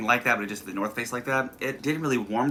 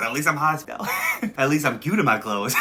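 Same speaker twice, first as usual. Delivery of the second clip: laughing; 3 semitones higher, 5 dB louder than usual. Retold or imitated. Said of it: "He said".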